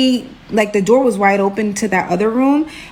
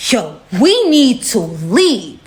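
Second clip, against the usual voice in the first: mock fearful urgency; much slower than usual. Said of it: "I'm seeing real fear in".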